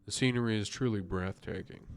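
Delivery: lightly voiced detective reading; Poirot. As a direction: read it as a mildly put-on detective. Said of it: "I'm doing the best accent for Poirot".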